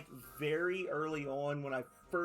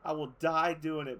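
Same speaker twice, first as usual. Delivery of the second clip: cat voiced as fighter; 5 dB louder than usual. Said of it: "And Hobbs is like".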